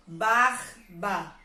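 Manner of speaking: "barba" slowly as BAR, pause, BA; R sounded, syllables split. Shown as a demonstration. Teacher reading the word differently, R sounded and syllables split. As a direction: close the first syllable of "barba" on a throaty R. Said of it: "agora eu vou ler diferente".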